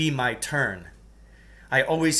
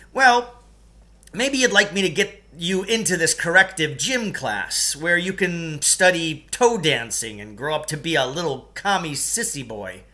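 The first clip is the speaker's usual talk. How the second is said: sneering gym teacher; 5 semitones higher, 4 dB louder than usual. Acted.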